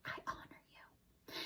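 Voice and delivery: breathy unvoiced whisper, barely audible; true whisper. A narrator's reading. Young mouse to the book, whispering. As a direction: breathe the words out reverently. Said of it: "whispered Despero".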